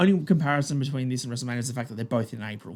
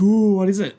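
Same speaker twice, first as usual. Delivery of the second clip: a curious, raised ooh; surprised crowd; 4 semitones higher, 7 dB louder than usual. Retold or imitated. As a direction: act out the crowd wondering aloud. Crowd reacting to lights out.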